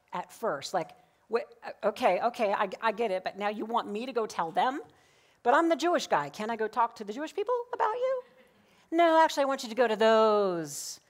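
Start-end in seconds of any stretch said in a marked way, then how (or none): 1.3-8.2 higher, pleading protest as Paul; a flustered, half-playful objection. Pretend. Paul protests his mission to God. 8.9-11.0 higher and louder, insisting; God's firm answer. Pretend. God answers Paul firmly.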